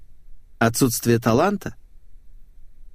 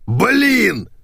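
much higher, loud angry yell over the speakerphone; 11 semitones higher, 4 dB louder than usual. Acted. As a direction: roar the curse at him. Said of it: "заорал мужской голос".

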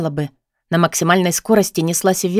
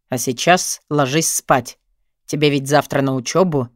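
put-on boyfriend; 6 semitones lower than usual. A narrator's reading. Boyfriend voiced low and slow.

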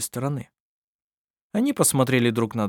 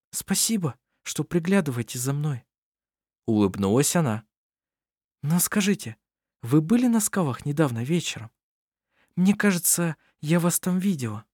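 lightly raised, gentle woman's voice; young woman voice; 5 semitones higher than usual. Acted. Anna-Maria thanks Kohl.

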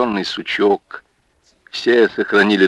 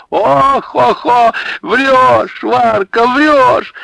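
very high, loud teasing; teasing shouts; 6 dB louder, much slower than usual. Acted. Women heckling Варвара, teasing. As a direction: heckle her playfully.

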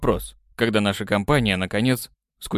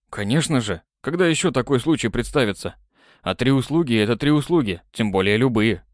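maximum snark. Acted. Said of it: "добавив максимально ехидство в голос".

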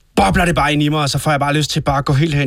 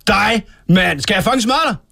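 raised-pitch challenge; angry threat; 4 semitones higher than usual. Acted. Provoked guest threatening his interviewer, angry. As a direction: threaten the other man, offended.

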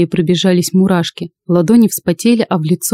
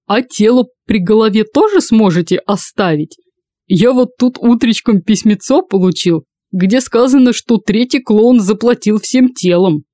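mocking jester; 3 semitones higher than usual. Drunk jester mocks.

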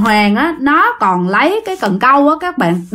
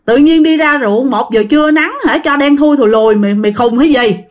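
raised, higher exasperated complaint; crying out in protest; 4 semitones higher than usual. Acted. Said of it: "chút nó mới la lên". (la lên phản đối, giọng cao)

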